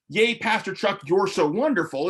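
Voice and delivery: hammed-up adoring cheer; mock cheering. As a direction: gush like a starstruck fan, mockingly. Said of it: "it isn't supposed to be".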